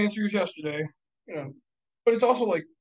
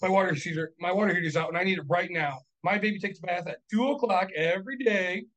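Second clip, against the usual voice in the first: urgent whiny tenant voice; demanding tenant; 2 semitones higher than usual. Retold or imitated. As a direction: plead like a needy renter. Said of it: "gonna be like".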